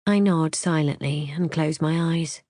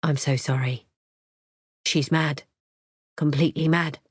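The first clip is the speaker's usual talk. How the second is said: slow and careful. A narrator's reading. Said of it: "he speaks slowly and carefully".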